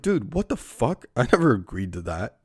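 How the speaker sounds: shocked outrage. Retold or imitated. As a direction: squeak it out in disbelief. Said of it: "And I was like".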